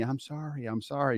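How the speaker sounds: soft, hushed apology, first one softest; imitated whisper. Wife pulls away saying sorry, half-whispered. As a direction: mimic her gentle murmured sorry. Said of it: "she's whispering to me".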